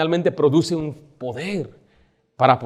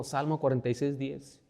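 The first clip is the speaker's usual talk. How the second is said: normal talking voice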